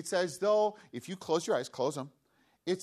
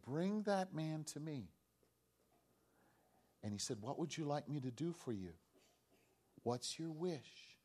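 gentle; 10 dB quieter than usual. Acted. Jesus voiced answering the blind man.

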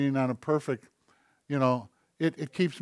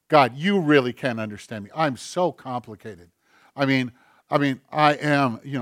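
louder, whiny mock complaint to God; playful sulky protest aimed at God; mock self-pity; 7 dB louder than usual. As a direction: ham up a self-important grumble.

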